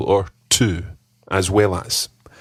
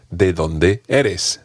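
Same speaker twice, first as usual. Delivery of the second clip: ¿De dónde eres? spoken slowly and clearly for learners; slow, careful model phrase; slow teaching model; much slower than usual. Shown as a demonstration. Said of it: "ask me the question".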